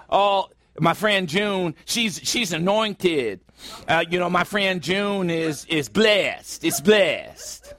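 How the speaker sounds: mock-reverent churchy voice, slow and drawn out; lightly mocking pious drawl; churchy pious talk. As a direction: parody the holy-sounding way Christians describe a friend. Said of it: "Why do we talk like that?".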